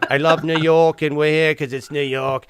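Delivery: loud, badly faked New York accent; slightly off New York fire chief accent. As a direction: attempt a New Yorker and miss. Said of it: "that's not a good New York accent".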